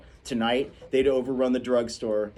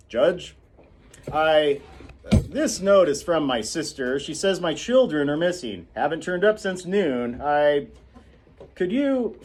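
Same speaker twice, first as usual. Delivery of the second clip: louder, halting father's voice; worried Atticus; 5 semitones higher, 4 dB louder than usual. Acted. Atticus telling the judge his children are missing, halting. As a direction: break off mid-plea, rattled. Atticus reads the worrying note.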